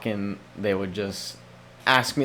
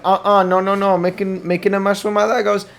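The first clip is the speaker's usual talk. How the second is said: lightly voiced stubborn kid, a bit louder; mock kid refusal; 4 semitones higher, 3 dB louder than usual. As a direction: brush it off like a busy toddler.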